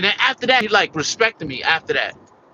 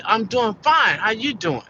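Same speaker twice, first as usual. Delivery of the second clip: friendly reply, a bit higher; polite scripted reply; 4 semitones higher than usual. Shown as a demonstration. Employee shows how the supervisor should politely reply. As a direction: answer the way the script says. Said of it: "if we stick in the script".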